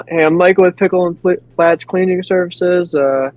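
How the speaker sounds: upbeat door-to-door pitch; a light salesman's greeting; friendly sales pitch. Shown as a demonstration. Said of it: "I might go like".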